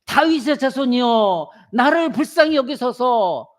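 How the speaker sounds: mild pleading cry. Retold or imitated. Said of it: "소리 지르고 부르짖는 거예요".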